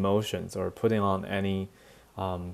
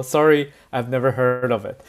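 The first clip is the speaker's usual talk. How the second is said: mock dismissive sorry, a bit louder; rude reply; 2 semitones higher, 5 dB louder than usual. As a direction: brush off the country you've never heard of. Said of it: "你不觉得这样超级没礼貌吗".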